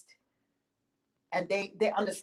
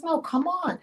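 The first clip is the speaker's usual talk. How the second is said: eager host; 10 semitones higher than usual. Acted. Farmer invites her in.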